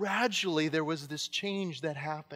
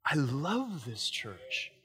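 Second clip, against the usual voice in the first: voice of God; 3 semitones lower, much slower than usual. Retold or imitated. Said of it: "this thing that says".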